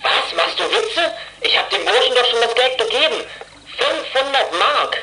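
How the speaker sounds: high, incredulous laugh through the words; can't believe what he's hearing, half laughing; stunned, nervous laughing disbelief; shocked disbelief. Acted. Shocked at news over radio.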